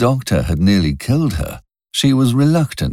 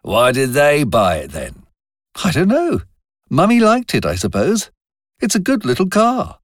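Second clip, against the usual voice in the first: put-on a young woman's voice, clearly higher; Robin's higher voice; 11 semitones higher than usual. A narrator's reading. Robin defending her car to Wilcox, higher voice. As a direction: lift the pitch for Robin, a bit defensive.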